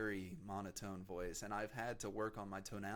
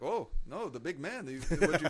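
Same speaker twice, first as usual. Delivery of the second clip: loud, high mock Arab accent; dad's Arab accent; 7 semitones higher, 11 dB louder than usual. Dad teasing his son as the big man in an Arab accent. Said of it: "thick Arab accent".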